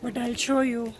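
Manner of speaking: hoarse, strained sore-throat voice; speaking carefully through a sore throat. Real, not acted. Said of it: "my throat is sore".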